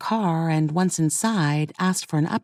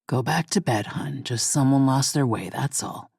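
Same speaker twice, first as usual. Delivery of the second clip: gruff husband; 4 semitones lower than usual. A narrator's reading. Husband brushing off his wife.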